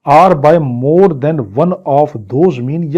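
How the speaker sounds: crawling, word-by-word reading; slow statute reading. Shown as a demonstration. Teacher reads the statute clause very slowly to students. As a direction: let each word of the clause sink in.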